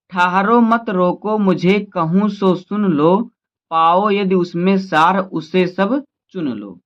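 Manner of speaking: measured verse reading; poem recitation. Acted. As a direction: read the lines out like a poem to the class.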